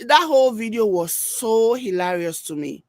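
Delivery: ordinary delivery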